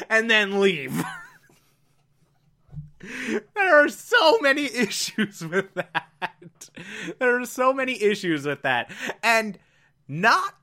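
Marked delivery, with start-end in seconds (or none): 3.5-6.7 laughing through it, slowed; can barely get it out for laughing; laughing disbelief. Real, not acted. Laughing first take.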